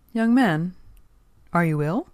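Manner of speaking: lightly voiced elder, loud and high at the start; concerned old gentleman. A narrator's reading. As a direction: call out to a stranger with concern. Old gentleman calls to stranger.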